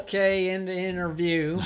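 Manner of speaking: kortaf als Mickey; Mickey role, curt. Acted. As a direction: cut the interview off short. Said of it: "the scene from next week's movie".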